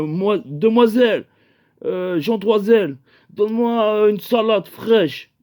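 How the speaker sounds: lightly voiced medieval rogue addressing a maiden; medieval character. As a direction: declaim it a touch grandly, drawing out the words. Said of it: "t'es moyenâgeux".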